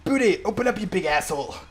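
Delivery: yelling. Acted. Banging on door, yelling for Booty.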